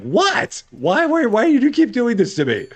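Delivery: high, whiny complaining voice; poor guy whining. Retold or imitated. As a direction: play the pestered little worker, squeaky and fed up. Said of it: "This poor guy's like".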